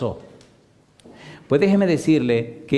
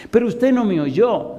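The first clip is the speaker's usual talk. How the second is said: put-on old woman's insistent plea, pitched up and slow; voiced old woman; 9 semitones higher than usual. Old mother correcting her pastor, high insistent plea. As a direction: plead like the grieving old mother.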